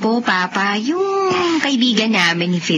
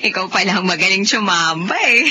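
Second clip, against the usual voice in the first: laughing; faster than usual. Acted. Teasing laugh while talking.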